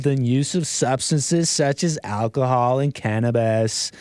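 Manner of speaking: laid-back lightly psychedelic reading voice; stoner voice. Pretend. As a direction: read it like a mellow stoner. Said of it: "Is that a stoner voice?".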